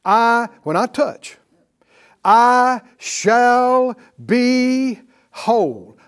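slow, firm, emphatic I shall be whole; preacher proclaiming each word slowly; definite declaration. Shown as a demonstration. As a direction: declare it with total certainty. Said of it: "Do you hear how definite that is".

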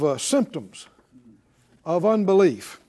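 usual speaking voice

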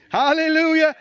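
shouted, high hallelujah; loud hallelujah. Real, not acted. Preacher shouting praise to the congregation, loud.

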